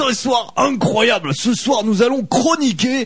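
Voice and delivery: slow, hammed-up big announcement; announcer shout. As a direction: boom it like a show host. Announcing the first segment.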